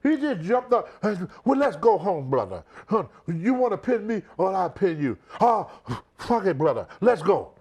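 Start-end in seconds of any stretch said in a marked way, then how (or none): 1.5-7.5 lightly voiced blustering wrestler; a hint of the Sheik's gruff bluster; Iron Sheik voice. Retelling the Sheik walking out of the match, lightly voiced. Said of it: "You know how the Sheik talk".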